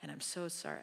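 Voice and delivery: a touch of overly pious prayer voice; gently parodying a showy, pious prayer; mock performance prayer. Preacher mocks her own performance prayer, mildly pious. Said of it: "you do the performance".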